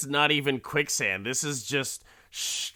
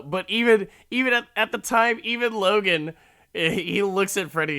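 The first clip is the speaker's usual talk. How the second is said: much higher, louder, fast; excited; 9 semitones higher, 6 dB louder than usual. Real, not acted. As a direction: rush it out excited. Excited buildup, laughing.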